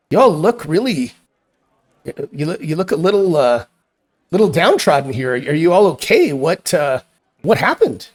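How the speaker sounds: a hint of a fussing hostess; concerned innkeeper. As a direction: play a solicitous tavern hostess, lightly.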